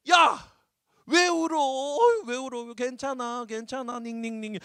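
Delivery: loud, high, tactless husband calling out; clueless husband. Retold or imitated. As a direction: play the oblivious husband brushing off her tears. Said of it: "얼마나 꼴보기 싫어". (눈치 없는 남편 흉내)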